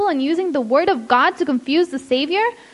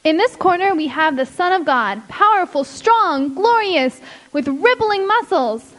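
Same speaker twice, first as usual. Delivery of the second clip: ring announcer. Acted. Announcer hypes the fighter.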